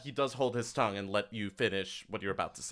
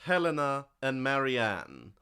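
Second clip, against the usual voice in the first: mildly silky NPC; 4 dB quieter than usual. Acted. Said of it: "so he goes".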